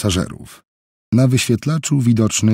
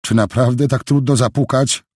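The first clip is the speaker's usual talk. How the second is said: higher, irritated telling-off; snapping rebuke; 5 semitones higher than usual. Acted. Jill, startled, scolds Helen for not knocking. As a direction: scold her for barging in. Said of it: "ofuknęła ją dziewczyna".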